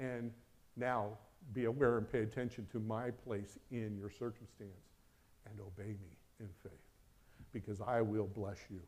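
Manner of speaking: low, softened voice of God; God's gentle command. Acted. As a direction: counsel softly and reassuringly.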